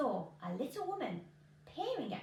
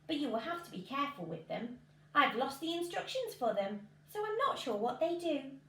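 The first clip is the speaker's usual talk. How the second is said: sly salesman; 2 semitones higher, 4 dB louder than usual. Acted. Man selling magic beans.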